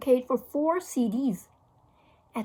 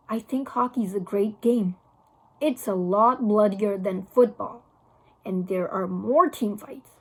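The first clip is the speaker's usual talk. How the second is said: put-on a lower, gleeful tough-boy voice; relishing tough kid; 4 semitones lower than usual. A narrator's reading. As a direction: savor every bloody detail. Boy relishing violent hockey.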